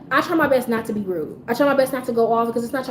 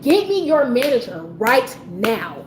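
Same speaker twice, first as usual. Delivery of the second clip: firm, emphatic retold demand; snapping; 2 semitones higher than usual. Angry customer demanding the worker's manager, snapping. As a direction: demand it hard, punching the key words. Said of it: "after I snapped at her".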